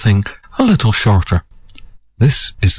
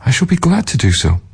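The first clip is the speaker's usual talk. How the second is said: pleading merchant; 3 semitones higher than usual. Acted. Merchant pleads with weeping woman.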